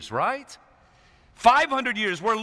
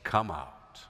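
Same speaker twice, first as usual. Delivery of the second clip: Jesus calling Lazarus; slower than usual. Retold or imitated. Jesus calling dead Lazarus from the grave, commanding. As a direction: call into the tomb. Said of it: "and said".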